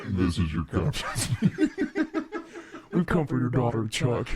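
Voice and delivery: deep pitch-shifted pirate captain; voice changer effect. Pretend. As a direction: growl it through a demon filter. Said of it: "I sound like a drag queen".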